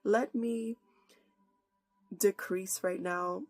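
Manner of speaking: earnest prayer. Acted. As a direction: pray aloud, humbly, to God before the sermon. Opens with a prayer.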